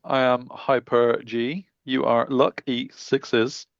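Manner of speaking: flat robotic announcer voice. Acted. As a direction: speak like a robot. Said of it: "I'll turn off my robotic voice now".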